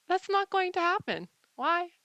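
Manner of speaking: high, loud excited insistence; emphatic. Real, not acted. Vlogger insisting to viewers that AI won't leave. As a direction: insist it brightly.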